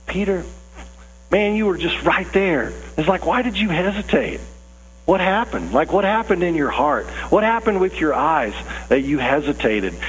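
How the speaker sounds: acted, puzzled concern; sympathetic dismay. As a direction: ask like a friend who hates to see a near miss. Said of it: "that's not the sense of this text".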